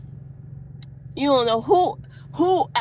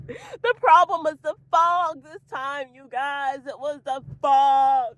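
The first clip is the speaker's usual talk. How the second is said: slow, higher, mock-dramatic delivery; imitating her announcement; 3 semitones higher, 4 dB louder, slower than usual. Quoting the alien woman to viewers, mock-dramatic. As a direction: draw it out, landing hard on "fog". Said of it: "That's what she said".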